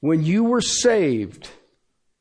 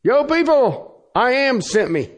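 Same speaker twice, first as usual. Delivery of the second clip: mock announcement; 9 semitones higher, 3 dB louder than usual. Moses imagined telling the people who sent him, mock announcement.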